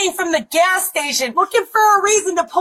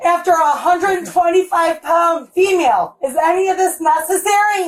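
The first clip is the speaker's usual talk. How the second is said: shouting match. Real, not acted. Shouting at officers in house.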